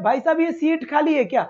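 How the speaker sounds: सीट with a long ee, "seet"; long ee in सीट, not short "sit"; correct long vowel. Shown as a demonstration. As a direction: ask it with सीट's vowel held long. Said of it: "कैसे बोलते हैं?".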